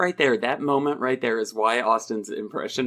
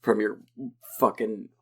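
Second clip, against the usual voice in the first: mock muttered rant, softer; imitating the rant; 3 semitones lower, 4 dB quieter than usual. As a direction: grumble it like his usual rant. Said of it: "the rant that he does".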